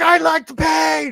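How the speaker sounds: acted very high, very slow, drawn-out, rough yell. Recalling a shouty line from the movie Van Helsing, retelling a movie yell. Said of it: "why is everyone yelling at each other?".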